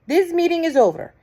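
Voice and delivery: high, loud witch's shout. A narrator's reading. Grand High Witch shouts to the witches, high and loud. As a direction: end it with a cry. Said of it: "she shouted".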